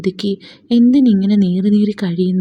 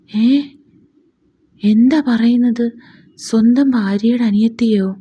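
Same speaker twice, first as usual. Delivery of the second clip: higher and louder, stunned; can't believe what she hears; shocked disbelief; 3 semitones higher, 4 dB louder than usual. Acted. Shocked at neighbour's gossip. (ഞെട്ടലോടെ, വിശ്വസിക്കാനാവാതെ)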